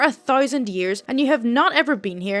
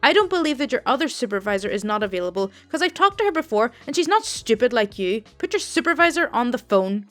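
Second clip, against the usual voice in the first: louder, mock-furious old lady; angry customer; 4 dB louder than usual. Rude old customer insults the call center agent, loud and angry. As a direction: snap at the agent, lightly voiced old Italian woman. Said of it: "elderly Italian lady and clearly a smoker from her voice".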